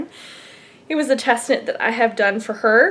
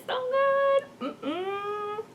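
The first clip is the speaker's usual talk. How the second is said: savoring whisper; 11 semitones higher, 5 dB quieter, much slower than usual. Real, not acted. Savouring pumpkin spice creamer.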